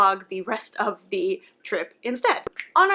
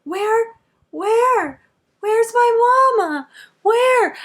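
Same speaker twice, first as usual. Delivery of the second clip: put-on high, loud little girl ghost wail; creepy ghost girl; 12 semitones higher, 8 dB louder, much slower than usual. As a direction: imitate a creepy ghost child, drawn out and high. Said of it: "creepy little girl ghost voice".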